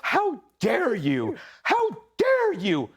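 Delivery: high, drawn-out mock indignation. Co-host mimicking an offended congresswoman, mock indignant outcry. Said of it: "obviously, A O C".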